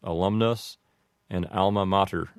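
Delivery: alumnus and alma mater the American way; everyday English version; typical pronunciation. Shown as a demonstration. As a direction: say alumnus uh-LUM-nus and alma mater AL-muh MAH-ter. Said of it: "like this".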